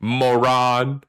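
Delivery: "Moron" stretched out, ending on a rise; "Moron" in two long syllables; mock pronunciation lesson. Shown as a demonstration. Repeats the pedantic pronunciation.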